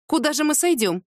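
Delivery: high-pitched, baffled query; puzzled question. A narrator's reading. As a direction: ask as if it makes no sense. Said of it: "не поняла она". (недоумённо, высоким голосом)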